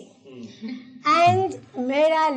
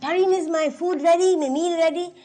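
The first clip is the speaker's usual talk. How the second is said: mother-in-law calling louder and higher from another room; the strict mother-in-law calling her daughter-in-law for lunch, calling out louder; calling out for food; 6 semitones higher, 6 dB louder than usual. Retold or imitated. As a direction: call out for the meal like a demanding mother-in-law.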